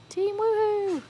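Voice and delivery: high-pitched rallying whoop; team cheer. Pretend. Streamer cheering on the chat team, high whooping cheer. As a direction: cheer it high, holding the last sound.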